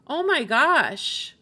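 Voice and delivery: usual speaking voice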